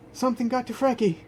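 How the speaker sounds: high, fast panicked words; frantic. Acted. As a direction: blurt it out in a panic. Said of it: "what sounds like Cora's voice".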